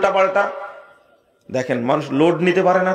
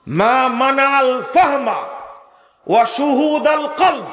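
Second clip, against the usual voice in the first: slow, raised chant of the Arabic phrase; slow raised Arabic recitation; quoted recitation; 8 semitones higher, slower than usual. Acted.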